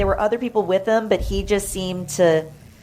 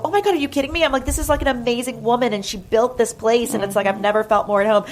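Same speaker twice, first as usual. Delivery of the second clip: excited gushing; 5 semitones higher, faster than usual. Retold or imitated. Gushing to coworkers about Mitzi.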